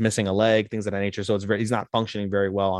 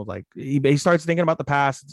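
usual speaking voice

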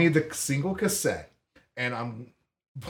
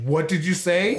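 mock outrage, pitch raised; outraged mom; 6 semitones higher, 4 dB louder than usual. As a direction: lightly imitate a scandalized mother. Mom outraged, retold quote.

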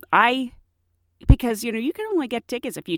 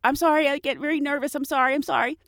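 a touch higher, fumbling, apologetic; fake nervous driver; 5 semitones higher, faster than usual. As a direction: act scared for the officer. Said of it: "I act so scared and nervous".

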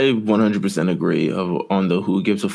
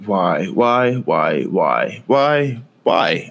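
exasperated; 3 semitones higher, much slower than usual. Real, not acted. Exasperated repeated why.

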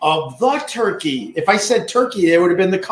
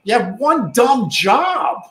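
exasperated shout; 6 semitones higher, slower than usual. Acted. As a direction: yell at the dumb penguins. Scolding penguins in documentary.

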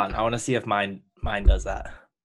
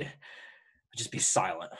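quiet; 6 semitones lower, 8 dB quieter, much slower than usual. Retold or imitated. Imagining freezing up.

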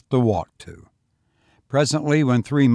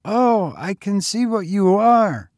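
put-on higher boy, a touch breathless; a hint of panting, young lad; 9 semitones higher, 4 dB louder than usual. A narrator's reading. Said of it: "the boy panted".

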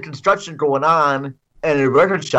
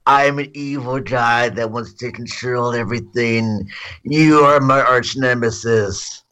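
evil villain voice. Retold or imitated. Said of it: "he just has this very".

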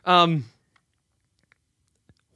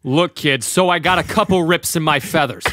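a light hint of a smuggler, lower; lower, lightly voiced cocky rogue; Han Solo; 5 semitones lower than usual. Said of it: "Do that, uh, Han Solo".

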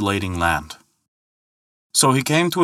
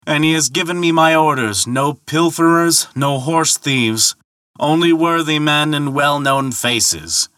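calling out; 4 semitones higher than usual. Acted. Ferryman telling Thor whose ferry it is, calling out. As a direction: proclaim the orders across the water. Ferryman calls his answer across water.

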